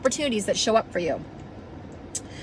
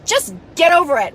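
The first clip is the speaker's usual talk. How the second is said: exasperated slap line; 5 semitones higher, 5 dB louder than usual. Retold or imitated. Film slap line, acted.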